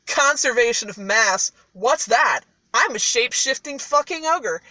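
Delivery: loud, indignant boast; acted cocky indignation; scoffing ogre. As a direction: brush off the doubt with bluster. Ogre scoffs at cat's doubt.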